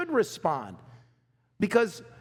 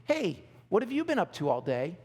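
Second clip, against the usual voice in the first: friendly tone; 2 semitones lower than usual. Shown as a demonstration. Wife casually asking her husband, friendly tone. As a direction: ask gently, just curious. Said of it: "There is a difference between".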